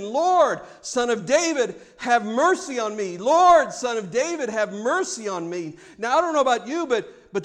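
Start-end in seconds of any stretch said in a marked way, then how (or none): 0.0-5.8 loud opening cry, easing off; mild imitation of a woman crying out; acted crying out. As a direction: call out a plea for mercy, tapering down. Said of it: "And she's saying".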